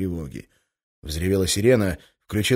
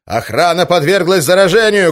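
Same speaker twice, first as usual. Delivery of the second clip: high, loud alarm shout; 10 semitones higher, 12 dB louder than usual. Acted. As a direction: cry it out over the crowd. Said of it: "крикнул Иван".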